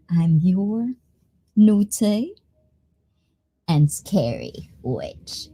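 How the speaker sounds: slow, half-whispered witch introduction; lightly put-on spooky witch; playful scary witch. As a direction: play a hushed, teasing witch. Playing a witch for Halloween stream.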